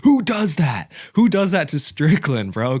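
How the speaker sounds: high, loud laughing disbelief; amazed disbelief. Real, not acted. Fan marvelling at a win over Strickland, high and loud. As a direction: ask it in amazed delight.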